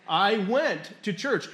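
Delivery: WENT drawn out and leaned on; stress on WENT. Shown as a demonstration. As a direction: slowly land hard on the word "went". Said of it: "What verb is the emphasis on there?".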